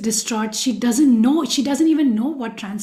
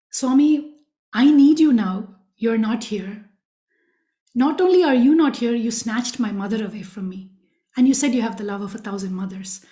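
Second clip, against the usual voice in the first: a hint of a hurt daughter scolding Swami; sarcastic. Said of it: "almost with a tinge of sarcasm".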